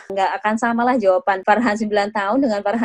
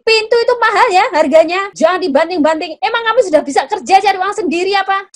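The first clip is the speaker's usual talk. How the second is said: high, louder nagging mother; scolding; 8 semitones higher, 5 dB louder than usual. Shown as a demonstration. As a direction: tell off the door-slamming teen. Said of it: "Itu jadi yang salah". (ibu mengomel dengan suara tinggi dan keras)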